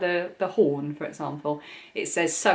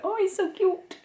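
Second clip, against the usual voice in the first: much higher, squealing with delight; 13 semitones higher than usual. Real, not acted. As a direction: gush at the tiny toy. Showing cute toy detail.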